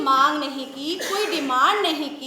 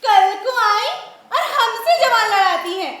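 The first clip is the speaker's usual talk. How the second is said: loud, furious mother-in-law rant, faster at the end; angry scolding; 4 semitones higher, 6 dB louder than usual. Acted. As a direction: scold her loudly for talking back. सास बहू पर भड़कती है. (गुस्से में ज़ोर से डाँटती सास)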